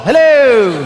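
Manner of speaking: loud, high, drawn-out hello; calling out. Real, not acted. Comic calls to the top seats, long loud holler. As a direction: holler it up to the back rows.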